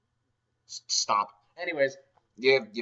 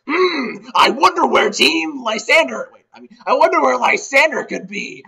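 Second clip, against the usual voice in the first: pondering NPC; 10 semitones higher, 11 dB louder than usual. Retold or imitated. Helm wondering where Lysander is, high and musing. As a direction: muse aloud like a puzzled detective.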